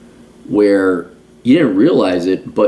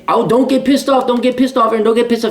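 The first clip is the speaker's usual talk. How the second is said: high, sing-song mockery of advice givers; mock calm advice; 13 semitones higher than usual. Mocking people who say stay calm, high sing-song. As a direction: parrot the preachy advice in a high silly voice.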